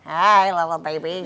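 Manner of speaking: put-on town drunk voice. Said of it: "just like that".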